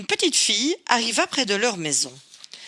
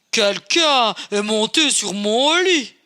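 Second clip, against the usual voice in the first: slow, louder big bear voice; big gruff voice; 4 dB louder than usual. Acted. Papa Bear finding his bed used, slow and booming. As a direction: rumble it slowly like a big bear. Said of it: "d'une très grosse voix".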